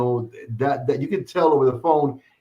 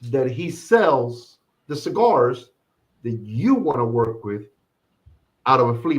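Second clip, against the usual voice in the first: disbelieving question. Retold or imitated. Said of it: "I said".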